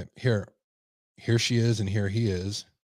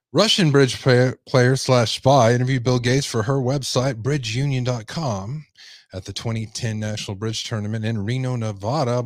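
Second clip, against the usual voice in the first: emphatic news-story read; projected article narration; 4 dB louder than usual. Acted. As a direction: read out the report like a newscaster.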